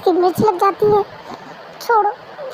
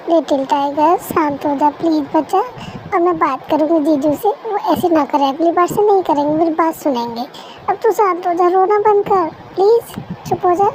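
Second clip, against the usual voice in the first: soothing friend. Acted. Friend soothes crying wife.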